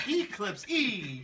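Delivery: Eclipse E, slow, with a long E added at the end; joking Eclipse E. Shown as a demonstration. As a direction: stretch out Eclipse E slowly. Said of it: "pronounce the last one and say".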